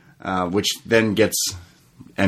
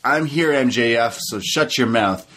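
imitating DDP; 4 semitones higher than usual. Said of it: "He says".

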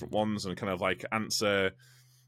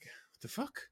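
mock bewildered outburst; 9 semitones higher, 5 dB quieter than usual. Retold confusion on site.

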